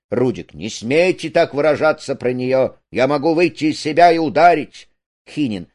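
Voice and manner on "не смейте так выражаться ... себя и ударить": mild outrage, growing louder and higher; offended defence of a sweetheart; indignant warning. Acted. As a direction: bristle and threaten, building toward the end. Indignant threat in acted quarrel.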